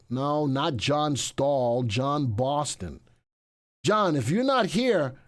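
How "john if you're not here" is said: mock threat. Real, not acted. Calling absent winner, mock threat.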